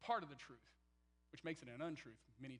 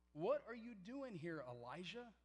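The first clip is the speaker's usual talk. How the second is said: slow, solemn and louder, as the word of the Lord; a mild booming divine question; prophetic voice of God; 4 semitones higher, 5 dB louder, slower than usual. Retold or imitated.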